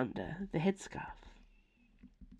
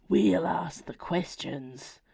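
growled; slower than usual. Acted. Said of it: "growled one of the werewolves".

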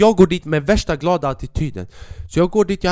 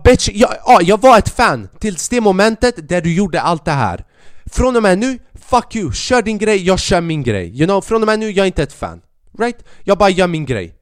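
raised, higher defiant retort; heated comeback; 4 semitones higher than usual. Retold or imitated. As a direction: fire back at the bully comic. Retold comeback to hostile comic. (upprörd komiker skäller tillbaka, högre och ljusare)

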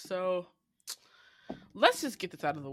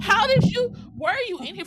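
much higher, louder startled retelling; shocked shriek; 13 semitones higher, 10 dB louder than usual. Retold or imitated. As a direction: relive the shock at the huge bug. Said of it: "And I'm like".

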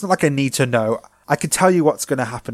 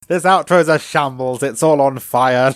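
mock despair; 6 dB louder than usual. Mock despair at wrecked outro.

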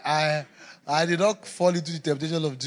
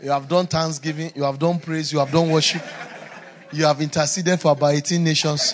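building list; 6 dB louder than usual. Acted. Listing prayers, building up.

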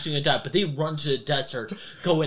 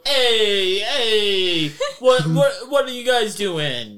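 louder, higher thug alarm; mafia thug; 5 semitones higher, 5 dB louder, much slower than usual. Acted. GM voicing mafia men confronting the party, loud startled challenge. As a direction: bark it out like a startled mobster. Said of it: "they pull out their guns and go".

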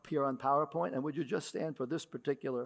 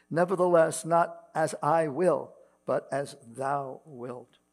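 measured, ringing King James reading; scripture reading. Acted. Pastor reads Isaiah to the standing congregation, solemn reading voice. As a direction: read the old words out to the congregation with weight.

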